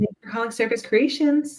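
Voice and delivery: bright, very high customer service voice. Retelling answering phones at work: much higher customer service voice. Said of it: "I definitely put on, like, a much higher".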